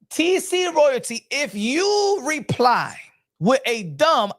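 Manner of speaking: slow, deliberate address to a heckler. Shown as a demonstration. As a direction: stretch the words out condescendingly. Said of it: "I think I said it slow enough".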